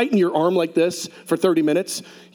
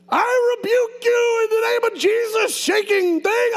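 high shouted rebuke; hammed-up shout at the shaking; half-joking rebuke, pitched way up and yelled; mock rebuke shout.

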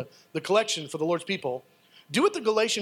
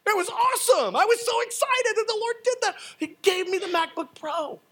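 much higher, rising to a peak; joyful building praise; excited testimony; 10 semitones higher than usual. Real, not acted. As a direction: preach the blessing with mounting joy. Excited testimony of answered prayer.

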